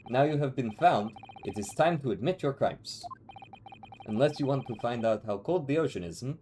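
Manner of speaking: put-on lightly Russian-accented interrogator. Russian guy demands a confession from suspect, lightly Russian. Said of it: "We'll go very lightly Russian".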